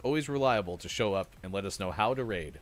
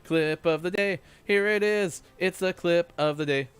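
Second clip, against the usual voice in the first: announcer voice; 4 semitones higher, 5 dB louder than usual. Acted. Announcing the clip segment.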